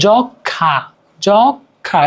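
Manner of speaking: যক্ষা said "jok... khã", lightly nasal; light nasal pull. Shown as a demonstration. Teacher showing a light nose pull, nasal যক্ষা. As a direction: nasalize the final vowel of যক্ষা slightly. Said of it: "নাকে একটা হালকা টান দিচ্ছে".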